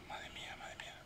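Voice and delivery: whispered under the breath; tense whisper. Real, not acted. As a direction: whisper it in dread. Tensión en el juego. (susurro tenso)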